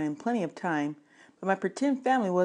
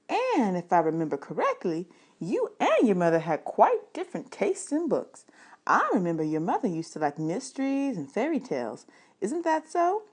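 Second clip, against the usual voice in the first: librarian voice; 3 semitones higher than usual. Acted. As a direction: lightly voice the friendly librarian.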